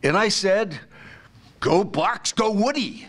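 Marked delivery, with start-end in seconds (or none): 1.6-3.0 high-pitched retold football chant; mock fan cheer. Man hearing she went to Ohio State, cheering excitedly. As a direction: cheer on the team, hammed-up.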